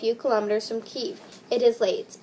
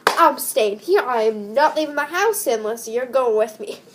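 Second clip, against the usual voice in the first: mock scared insistence; 5 dB louder than usual. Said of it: "I'd be like".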